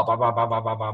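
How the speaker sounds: rapid repeated ba-ba-ba; telegraph imitation. Shown as a demonstration. Preacher explains tongues to listeners, telegraph-like chatter. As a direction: tap out syllables like a telegraph. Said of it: "打电报".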